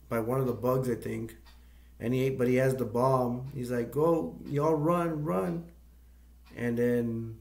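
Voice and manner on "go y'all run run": raised pitch, drawn-out urging; mock urging. Injured Watkins with the bomb to his friends, mock urgent call. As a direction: play at sending friends away, voice higher.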